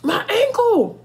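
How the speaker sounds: mock whimper. Lying hurt in the grass, a hammed-up whine. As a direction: whine it like you're hurt on the ground. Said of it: "I'm just on the ground like".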